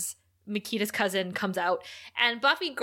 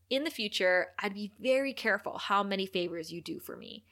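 mild, unharsh retold warning; understated threat; 2 semitones lower, 5 dB quieter than usual. Host quotes the mayor warning Mister Trick, quietly threatening. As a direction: quote a threat without any harshness, letting it soften at the end. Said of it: "not like he delivered that harshly".

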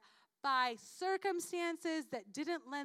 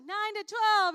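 announcing; 6 semitones higher, 10 dB louder, slower than usual. Acted. She announces the prayer hours.

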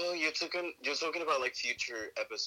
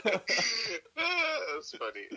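sarcastic; 9 semitones higher, much slower than usual. Acted. Mock deadpan, very slow.

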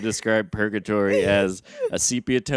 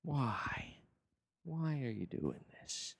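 mock horrified; 3 semitones higher, 19 dB quieter, slower than usual. Reacting to partner's baby act.

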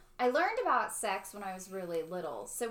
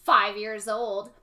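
put-on deadpan child question breaking into laughter; 11 dB louder than usual. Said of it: "point blank stare down in the eyes".

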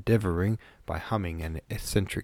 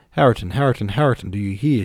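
raised, louder pleading call for attention; insistent calling; 5 dB louder, faster than usual. A narrator's reading. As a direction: call his name insistently to get an answer. Girl repeatedly calls her unresponsive cousin.

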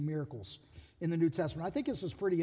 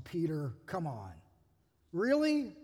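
exasperated Jesus; 3 semitones lower than usual. Retold or imitated. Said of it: "probably that tone of voice too".

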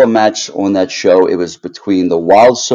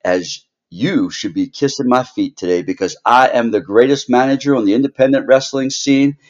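gloating wrestling manager; 5 semitones higher than usual. Acted. Heel manager cuts a promo.

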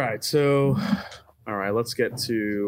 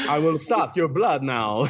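a hint of a lizard in a vampire threat. Player jokes as a bloodsucker, lizard vampire voice. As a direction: lightly play a vampire who comes out lizard. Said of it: "your vampire voice is just".

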